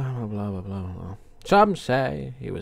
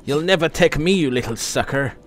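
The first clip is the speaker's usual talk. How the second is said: mock taunt; 4 semitones higher, 5 dB louder than usual. Taunting a game enemy.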